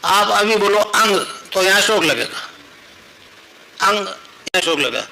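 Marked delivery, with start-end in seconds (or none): 0.8-1.2 अंग drawn out slowly as a nasal ang; demonstrated syllable. Shown as a demonstration. Guru tells the congregation to say अंग, slow demonstration. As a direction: model the sound अंग slowly for them. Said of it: "अंग बोलो".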